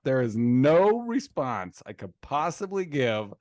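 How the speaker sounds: drawn-out mock exasperation; indignant retelling, stretching the key words; retold heated protest. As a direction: act out being cornered in an argument. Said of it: "I'm kind of, like, heated".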